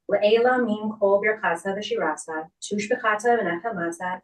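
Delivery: fast, rhythmic Aramaic prayer, rattled off from memory; rapid prayer recitation. Real, not acted. Officiant leading mourners in the Kaddish, swift prayer chant. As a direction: recite the Kaddish briskly and evenly, as a well-worn liturgy.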